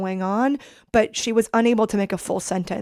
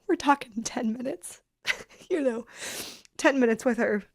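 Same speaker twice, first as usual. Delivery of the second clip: tearful laugh; 4 semitones higher than usual. Real, not acted. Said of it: "I'm welling up with tears now like this".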